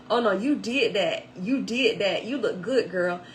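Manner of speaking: loud emphatic "you did that"; sassy approval. Retold or imitated. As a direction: insist she nailed the look. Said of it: "she said".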